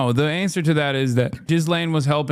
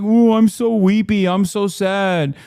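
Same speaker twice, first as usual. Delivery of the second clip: mock weepy whining; 4 semitones higher than usual. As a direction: whine it like a self-pitying baby. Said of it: "Everyone's like".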